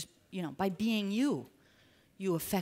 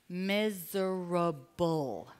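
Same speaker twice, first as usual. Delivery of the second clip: drawn out; 2 semitones lower, much slower than usual. Acted. Drawn-out emphasis.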